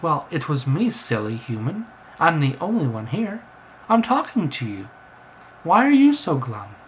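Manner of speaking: a lightly voiced, insistent bird; talking bird, insistent. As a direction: press the human for an answer.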